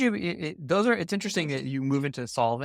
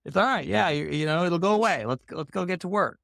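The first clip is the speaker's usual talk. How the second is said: dismissive; 3 semitones higher than usual. Retold or imitated. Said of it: "my response had always been".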